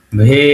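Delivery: "ভে" begun with a held v sound, not b. Shown as a demonstration. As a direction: sound "ভে" with a clear v, as in bhoy. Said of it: "ভয়ের মতো উচ্চারণ।".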